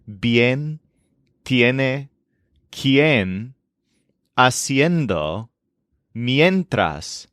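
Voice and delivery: bien, tiene, quien, haciendo, mientras with a clear ye glide; spaced examples bien, tiene, quien, haciendo, mientras, stressed ye; prominent yen sound. Shown as a demonstration. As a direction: list bien to mientras slowly, bringing out the yen. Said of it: "They have a prominent yen sound".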